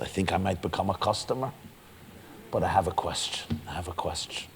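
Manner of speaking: soft, low, confidential voice; hushed confiding. Acted. God acted, turning confidential before questioning.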